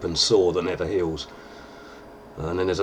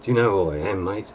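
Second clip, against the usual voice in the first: Jack Sparrow voice; 3 dB quieter than usual. Retold or imitated. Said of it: "he would say".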